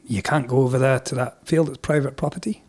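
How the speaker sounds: lightly imitated Scottish officer; wee Scottish accent. Police barring the field, in a wee Scottish accent. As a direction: explain it in a Scots accent. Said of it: "do the rest in a wee Scottish accent".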